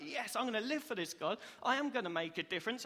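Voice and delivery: eager, emphatic declaration; lively, determined enthusiasm; excited. Acted. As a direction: act out a fired-up believer. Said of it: "Be excited".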